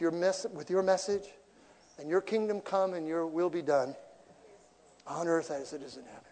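soft earnest prayer; quiet prayer. Retold or imitated. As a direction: pray it sincerely, hushed. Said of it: "I said".

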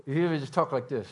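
lightly imitated coach through the teeth; Coach Dan Hawks. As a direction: talk as if your teeth stay shut. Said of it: "he talked with his teeth like this".

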